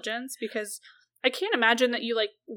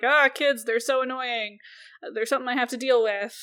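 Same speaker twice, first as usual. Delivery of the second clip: 1950s housewife; 3 semitones higher, 4 dB louder than usual. Retold or imitated. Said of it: "acting like a very typical nineteen fifties housewife".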